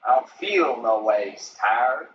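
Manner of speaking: slow, drawn-out quote of her; quoting her slow. Retold or imitated. Streamer repeats her viral line, slowly and deliberately. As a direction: lean into each word of the quote slowly. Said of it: "That is what she said".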